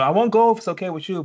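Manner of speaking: voicing Issa. Issa asking Lawrence for permission, a hint of pleading.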